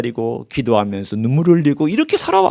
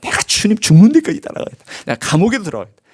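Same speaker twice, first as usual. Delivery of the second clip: boastful Peter; 8 semitones higher, faster than usual. Retold or imitated. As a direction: puff up like Peter bragging he'll follow to death. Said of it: "베드로가 꼭 그 꼴이에요".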